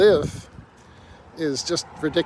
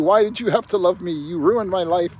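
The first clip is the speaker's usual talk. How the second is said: raised, higher-pitched accusing outburst; mock scream; 4 semitones higher, 4 dB louder than usual. Ex screaming at you about young marriage, mock yelling. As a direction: imitate an ex yelling in reproach, held back. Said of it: "the person screaming at you".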